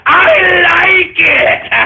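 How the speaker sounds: slow, drawn-out shouted gloating; gloating villain taunt. Acted. Streamer taunting his trolls, slow villainous gloat. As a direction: savour every word like a cartoon villain.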